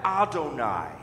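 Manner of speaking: Adonai as ah-doh-NAI, each syllable clear; demonstrating Hebrew Adonai. Shown as a demonstration. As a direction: model Adonai for learners to repeat. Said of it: "So say that".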